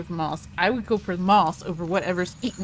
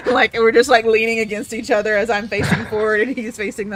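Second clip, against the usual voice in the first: loud, laughing explanation; amused, raised voice breaking into laughs; 3 semitones higher, 5 dB louder than usual. Real, not acted. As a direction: describe it through real laughter. Player cracking up describing mutual pushing.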